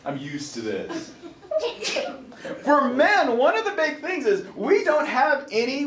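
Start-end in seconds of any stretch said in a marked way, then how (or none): 0.1-1.1 mock nonchalant. Seasoned mother unbothered by pain.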